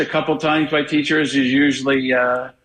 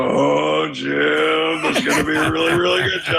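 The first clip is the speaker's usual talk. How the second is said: Nantz impression. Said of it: "get Nantz out and go".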